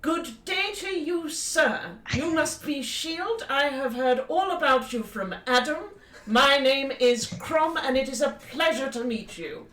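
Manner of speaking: formal, eager greeting with lifted pitch on openings; courteous Crom. Acted. Crom introducing himself to Shield, courteous formal greeting. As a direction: greet him with measured, hearty courtesy.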